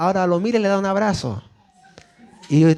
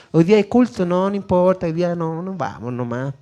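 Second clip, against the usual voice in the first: dismissive parent. Acted. Parent brushing off church in front of the child, dismissive. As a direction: wave it away, voice dropping at the end. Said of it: "quizás estamos haciendo lo contrario".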